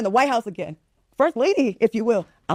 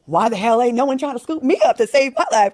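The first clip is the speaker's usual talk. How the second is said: indignant, pitched-up complaint; bitter venting; 3 semitones higher than usual. Acted. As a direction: protest like you've been passed over. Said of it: "I would feel like".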